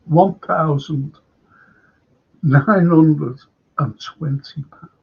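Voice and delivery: slow, halting disbelief with long pauses; disbelieving. Real, not acted. Host dwelling on corporate ticket price, slow disbelief. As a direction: let each part of the price sink in.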